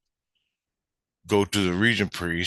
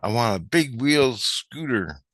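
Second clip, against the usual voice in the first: slow, higher imitated child voice; little kid wishing; 5 semitones higher, slower than usual. Kid naming the wish, slow imitated child voice. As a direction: spell out the wish slowly like a kid. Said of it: "This little kid goes".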